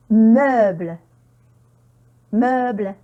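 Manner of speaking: Meuble with a clear "eu" vowel; eu sound modelled. Shown as a demonstration. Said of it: "C'est le son". (Meuble, son « eu » bien articulé)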